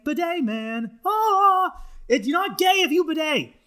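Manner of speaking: mock jingle announcer; ad slogan. Pitching the bidet brand's new logo, mock ad read. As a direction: sell it like a cheesy commercial. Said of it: "That's their new fucking logo".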